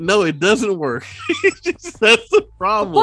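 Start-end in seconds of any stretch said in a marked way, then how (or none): 1.3-3.0 laughing shout. Real, not acted. Laughing outburst at friend.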